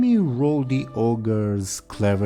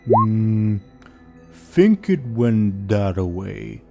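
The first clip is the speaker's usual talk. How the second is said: dopey ogre voice; 4 dB louder, much slower than usual. Acted. GM voicing the ogre.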